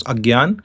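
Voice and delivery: Agyan with g-y; Agyan, no nasal after g; North Indian pronunciation. Shown as a demonstration. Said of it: "North Indians can pronounce".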